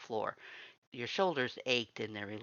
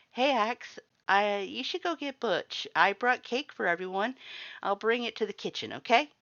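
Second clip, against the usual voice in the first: much higher, louder, eager voice; bright excited greeting; 11 semitones higher, 6 dB louder than usual. Acted. The visitor cheerfully tells Axe she brought cake, excited. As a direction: call out to Axe, pleased and upbeat.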